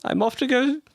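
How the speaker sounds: high, slow, grandiose proclamation; pompous drunk lord. Acted. Lord Damo announcing his grand exit, high and pompous. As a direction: play the puffed-up drunk nobleman.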